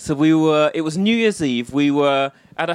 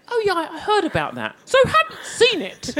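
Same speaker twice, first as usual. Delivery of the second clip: mock offhand actor; 13 semitones higher than usual. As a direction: send up his casual shrug. Retold actor's offhand reply.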